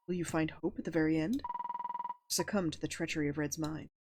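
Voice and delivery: a touch darker, steady storybook read; ominous narration. Acted. Narrating the nightmare lake to the player, measured and grim. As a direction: set the scene of the frozen lake, measured and grim.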